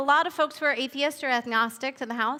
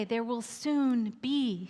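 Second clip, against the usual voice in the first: slow solemn prophecy; 4 dB quieter, much slower than usual. Acted. Old Turtle prophesies.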